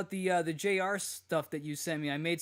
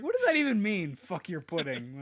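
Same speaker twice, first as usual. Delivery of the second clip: baffled quote; 3 semitones higher, 5 dB louder than usual. Retold or imitated. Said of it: "He's like".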